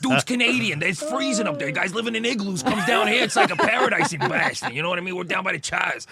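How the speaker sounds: put-on loud, high Boston accent, a proud fan raving. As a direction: brag like a thick-accented Boston local. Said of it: "it's like you become their dude".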